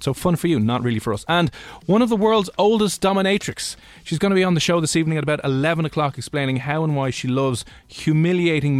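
punchy radio promo voice; booming prize announcer. Acted. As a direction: hype the prize like a DJ. Radio host promo for prize draw.

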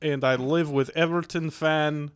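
put-on comic Russian accent. Shown as a demonstration. Guest introduces himself as the flatmate, mock Russian accent. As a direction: play a comrade in mock Russian. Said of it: "Russian accent".

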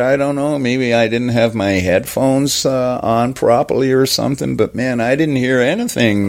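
earnest American explaining himself; David Fincher. Acted. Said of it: "first American accent I could, comes to mind".

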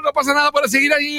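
on the held note. Shown as a demonstration. Commentator chatting mid-goal-cry, high sustained. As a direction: keep talking on the held shout pitch. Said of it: "talks on held note".

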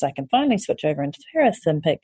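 fast, tumbling take of the line; quick rushed first try. Acted. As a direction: rush through it in relief. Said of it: "repeated line".

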